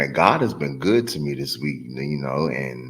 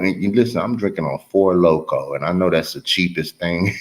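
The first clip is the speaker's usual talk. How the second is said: loose, tipsy rambling; 4 semitones higher than usual. Real, not acted. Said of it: "I'm a little tipsy right now".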